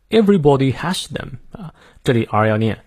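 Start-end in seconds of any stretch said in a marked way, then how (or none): 0.1-1.4 British "Everybody" with a rounded O; British accent. Shown as a demonstration. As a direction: say it as British pronunciation practice. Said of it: "我们来看一下英式发音".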